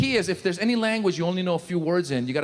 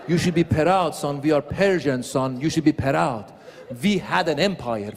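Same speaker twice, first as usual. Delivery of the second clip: proud Persian dad. Retold or imitated. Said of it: "my father would be like".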